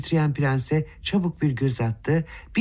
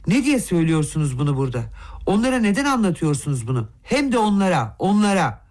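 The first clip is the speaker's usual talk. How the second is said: Aglaya bursts out at the prince; sudden angry outcry; 3 semitones higher than usual. Acted. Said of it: "Ansızın haykırdı Aglaya". (hızlı, yükselen öfkeli haykırış)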